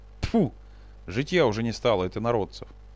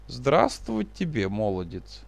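toothless mumble. Acted. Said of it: "прошамкал".

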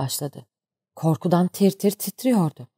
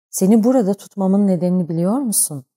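usual speaking voice

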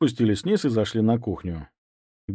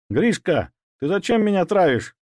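higher, accusing threat; menacing; 9 semitones higher, 4 dB louder than usual. Acted. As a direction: loom over him and demand. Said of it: "грозно спросил Ваня". (грозно, с обвинением)

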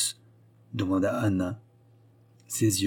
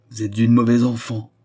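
stern and sad; 6 dB louder than usual. Acted. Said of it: "prononça sévèrement et tristement".

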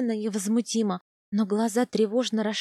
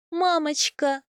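радостный возглас; 5 semitones higher, slower than usual. A narrator's reading. Встреча с матерью.

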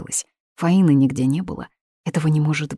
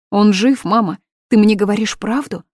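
higher, louder disbelief; frantic hope; 5 semitones higher, 7 dB louder than usual. Acted. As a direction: ask desperately. Daughter frantic after nightmare.

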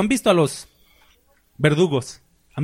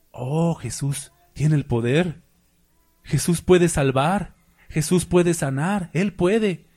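hopeful leper; slower than usual. Retold or imitated. Leper hears of Jesus, exclaims.

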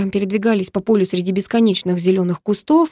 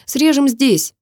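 command; 5 semitones higher, 3 dB louder, much slower than usual. A narrator's reading. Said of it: "скомандовал я".

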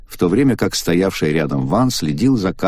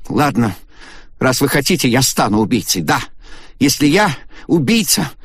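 very high wild shouting; raging; 9 semitones higher than usual. A narrator's reading. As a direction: rave like a madwoman. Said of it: "Агата разбушевалась". (Агата бушует, признаваясь в убийстве)

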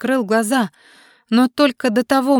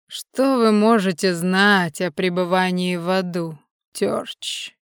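мрачная усмешка; slower than usual. Acted. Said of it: "мрачно усмехнулся он".

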